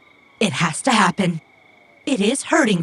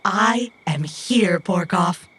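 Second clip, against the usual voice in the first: reassuring echo; slower than usual. Acted. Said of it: "would you mind saying it back".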